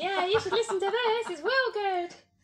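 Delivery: squealing, shrill, very loud voice, pitched way up. Imitating a Reddit commenter recommending a podcast: impression of a Reddit commenter. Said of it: "that's a pretty spot-on impression".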